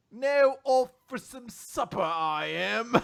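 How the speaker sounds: hearty hero. Acted. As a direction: boom it out cheerfully. Gav signing off.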